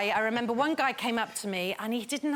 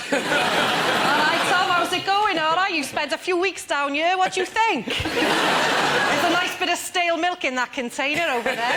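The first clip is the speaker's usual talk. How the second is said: loud, higher swaggering rat voice; hard Cardiff rat; 6 semitones higher, 7 dB louder than usual. Acted. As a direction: play the tough rat greeting the tortoise. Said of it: "the really hard Cardiff rat".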